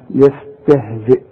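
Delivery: يستهزئ ending on a clear hamza stop; tajweed stop on يستهزئ; pause on hamza. Shown as a demonstration. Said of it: "وتقف بالهمزة".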